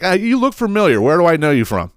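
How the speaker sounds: high, chummy mock barfly; lightly voiced nosy stranger; trashy stranger. Nosy 7-Eleven regular to the teller, high chummy voice.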